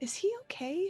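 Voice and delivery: hushed whispering. Scoop heads over toward Ajira, whispering. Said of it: "and whisper".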